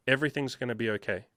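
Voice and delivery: quick but gentle, understated reassurance; calm reassurance. Retold or imitated. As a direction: say it quietly, as settled fact. Coach quotes his soothing reply.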